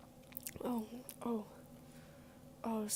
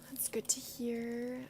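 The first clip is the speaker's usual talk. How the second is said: ASMR whisper; slower than usual. Real, not acted. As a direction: breathe it gently, slowly. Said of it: "kind of A S M R because of my headphones".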